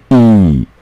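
E held as a long "ee"; long vowel. Shown as a demonstration. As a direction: stretch E out into a long, clear vowel. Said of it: "会念长音".

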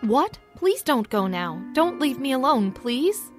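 pleading. Acted. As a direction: beg him not to go. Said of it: "Madeline replied in a pleading voice".

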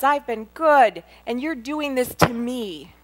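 high, loud cry of why me; reliving the shouting at God; anguished yell at God. Retold or imitated. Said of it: "And I just yelled".

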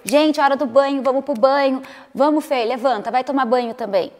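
mock nagging mother call; bossy call. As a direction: herd everyone to the bath. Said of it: "aí eu, gente".

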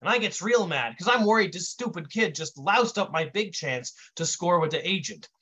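lightly voiced wise-guy storyteller; Brick telling his tale. Brick tells his origin story to an audience, wise-guy storyteller. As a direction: tell it as a streetwise raconteur.

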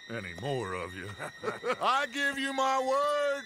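chuckling through the threat; mocking laugh. Gang leader chuckling a threat at guards behind the door. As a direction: laugh at them while you promise.

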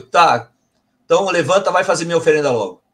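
brisk, fast, impatient command; curt order. Retold or imitated. Spirit ordering the sad medium to get up, curt and fast. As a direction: snap him out of it, fast. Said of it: "A resposta foi".

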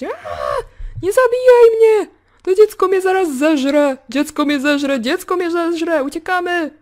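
high, hammed-up terrified yell; mock screaming. Gamer voicing a victim fleeing the cursed child, mock screaming. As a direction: shriek in mock panic, as if fleeing a monster. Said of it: "Powinna teraz wrzeszczeć".

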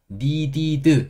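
"needed" stretched into slow, separate syllables, "니-디-드"; over-enunciated needed. Shown as a demonstration. Teacher shows learners what to avoid, over-enunciated "needed" as "니-디-드". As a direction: say "needed" as a laboured "니이-디이-드". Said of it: "이렇게 하지 마시고".

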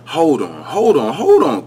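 laughing. Real, not acted. Laughing at his own flub.

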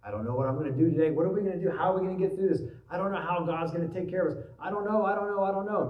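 fast, rushed mock worrying; mock fretting. Preacher mimics a believer spiralling into fast mock worry. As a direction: rattle off worries like someone spiralling. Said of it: "Or we pour gas on it going".

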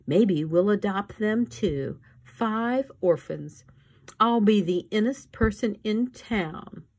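high, gushing society lady voice; snobbish socialite. Acted. Esme voiced by narrator.

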